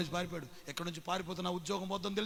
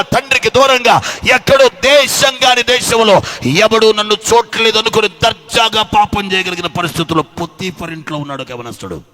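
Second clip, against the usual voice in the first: loud, driving sermon cadence, louder; preaching at full force; 5 semitones higher, 22 dB louder than usual. Acted. Preacher rousing the congregation to fear God, loud and driving. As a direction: hammer each line home to the church.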